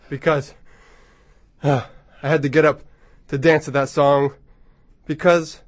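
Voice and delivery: out of breath after dancing. Real, not acted. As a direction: breathe hard between words, winded. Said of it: "I'm a little bit out of breath".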